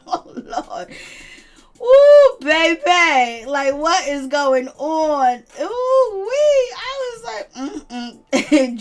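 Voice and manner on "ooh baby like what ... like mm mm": high squealing laughter, nearly crying; shrieking with laughter at the messy gift; laughing squeals. Real, not acted. Host cackling at the reality show gift drama.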